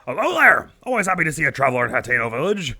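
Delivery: chatty, bragging village father; proud villager dad. Acted. Villager father brags to traveler, chatty and proud. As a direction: boast about your daughter to a traveler.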